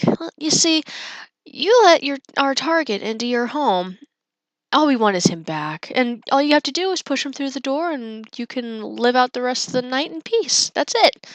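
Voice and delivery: mock-polite villain, lilting upward at times; lightly voiced courteous menace. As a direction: recount the demand with exaggerated courtesy. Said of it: "very politely, he's like".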